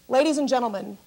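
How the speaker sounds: slow, deliberate calm announcing; pilot announcement. Retold or imitated. Pilot on the loudspeaker telling passengers, slow and calm. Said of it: "we hear the loudspeaker".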